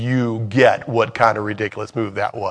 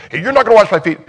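higher, louder protest; indignant Peter; 9 semitones higher, 7 dB louder, much faster than usual. Pretend. Peter refusing Jesus at the footwashing, high protest. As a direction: push back, high and sharp.

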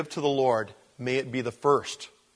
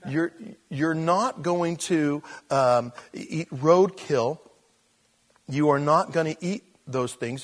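God forbidding; 3 semitones higher than usual. Retold or imitated. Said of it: "And God's saying".

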